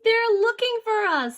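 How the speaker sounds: worried. Acted. Hiding in cave, afraid.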